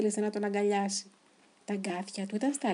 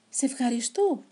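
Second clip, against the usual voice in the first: joyful; 4 semitones higher than usual. Acted. Elvis thanking Colin after the big hug, joyful. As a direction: thank him brimming with joy. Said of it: "γεμάτος χαρά".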